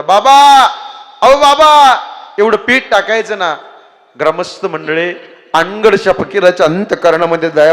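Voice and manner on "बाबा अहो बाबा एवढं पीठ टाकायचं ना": high loud pleading call; girl calling out. Acted. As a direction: plead after him like a little girl. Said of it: "मोठ्याने आवाज दिला".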